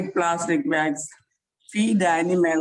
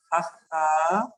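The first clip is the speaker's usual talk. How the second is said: laughing. Shown as a demonstration. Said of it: "then we have to laugh".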